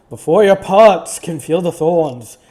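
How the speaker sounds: put-on a failed Southern preacher accent, slow; wrong accent attempt. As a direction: reach for the Southern drawl but miss it. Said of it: "That is the wrong accent".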